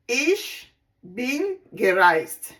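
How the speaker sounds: "Ich" set apart, then "bin gereist" drawn out slowly; slow demo. Shown as a demonstration. Teacher showing students the German past tense, slow and deliberate. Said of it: "We say it this way".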